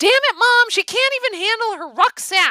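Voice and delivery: very high, sharp, shrill snapping. Mira to her mother as the narrator stumbles under a rucksack, snapping. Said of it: "Mira snaps".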